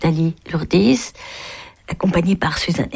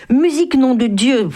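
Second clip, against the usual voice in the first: shout; 6 semitones higher than usual. Acted. Acrobat yelling at the men for music, shouting. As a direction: call out across the courtyard. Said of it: "cria l'acrobate".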